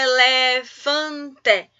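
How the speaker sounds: "elefante" very slow, in four stretched beats; syllable by syllable. Shown as a demonstration. Teacher quizzing pupils on voice impulses, "elefante" syllable by syllable. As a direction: draw out each syllable of "elefante". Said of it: "Quantos impulsos de voz eu realizei".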